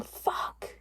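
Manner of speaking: a breathless, voiceless "Fuck"; whispered curse. Retold or imitated. Frozen in his passenger seat, she whispers a curse.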